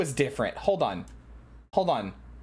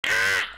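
excited yelp. Real, not acted. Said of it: "I'm a living cartoon".

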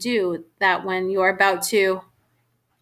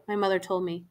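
ordinary delivery, nothing marked

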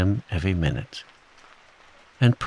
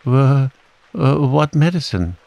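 loud, high faltering question; alarmed stammer; 6 semitones higher, 6 dB louder than usual. A narrator's reading. Piglet asks Kanga about medicine, high alarmed stammer. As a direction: trip over the word in dismay.

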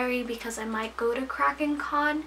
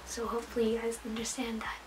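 soft whispered aside, almost to herself; whispered plea; 7 dB quieter, faster than usual. Real, not acted. Vlogger asking viewers' patience in a whisper. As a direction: hush it out as a sheepish request.

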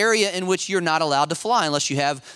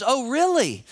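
mock-intrigued; 6 semitones higher than usual. Instructor retelling, mock surprise.

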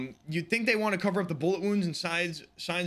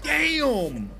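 loud higher shocked cry; shocked exclamation; 10 semitones higher, 7 dB louder than usual. Real, not acted. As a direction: blurt it out stunned. Shocked at werewolf reveal.

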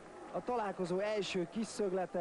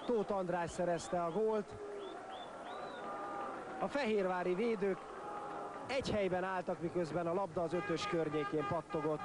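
high, urgent play-by-play build; excited goal call; 5 semitones higher than usual. Real, not acted. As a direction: ride the thrill of a goal. Commentator calls the second goal.

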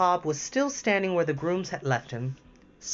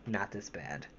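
softer, laughing at herself; embarrassed aside; 4 semitones lower, 7 dB quieter than usual. Real, not acted. Reader apologizing to listeners, soft embarrassed aside. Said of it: "my tongue is tied".

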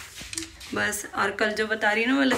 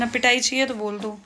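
stern threat; 4 dB louder than usual. Real, not acted. Mother threatening child.

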